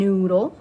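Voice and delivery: "noodle." with a loud, held N at the start; stressed N. Shown as a demonstration. Teacher showing the N sound in a word, loud on the N. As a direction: lean on the N in "noodle.". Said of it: "this letter makes the N sound".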